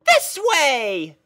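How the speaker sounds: very high, loud and bright-eyed; a chirpy girl pony puzzled by her steed; squeaky cheerful pony; pony princess voice. Acted. Pony character voice.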